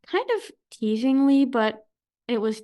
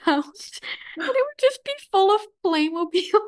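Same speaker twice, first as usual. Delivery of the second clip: laughing while talking; 6 semitones higher than usual. Real, not acted. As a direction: voice climbing high through laughter. Laughing at grandma's overloaded suitcase.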